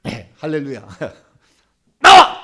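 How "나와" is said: high, explosive exorcism shout; shouted command. Shown as a demonstration. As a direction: blast out the order. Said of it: "이렇게".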